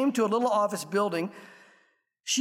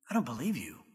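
stunned disbelief; 10 semitones lower, 7 dB quieter than usual. A narrator's reading. Stunned freed slave disbelieving.

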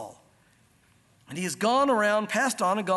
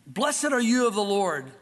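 louder, slowed fake pious greeting; hammed-up pious greeting; fake Christianese; 4 dB louder, slower than usual. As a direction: put on a phony churchy welcome.

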